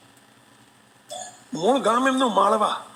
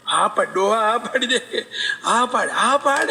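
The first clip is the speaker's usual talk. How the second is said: laughing nudge. Retold or imitated. Ishwar Doha nudges old man, laughing.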